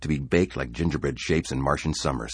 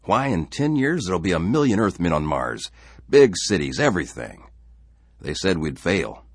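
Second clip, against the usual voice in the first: louder, bluff father playing convivial; hearty dad at breakfast; forced-cheerful father; 2 semitones higher, 4 dB louder than usual. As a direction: push the cheer a little too hard.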